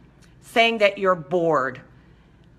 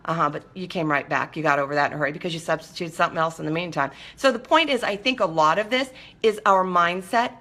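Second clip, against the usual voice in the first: ordinary talk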